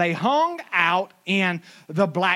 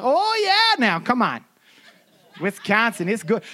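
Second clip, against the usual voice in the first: laughing agreement; 3 semitones higher than usual. Retold or imitated. Answering the local, laughing along. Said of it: "I'm like".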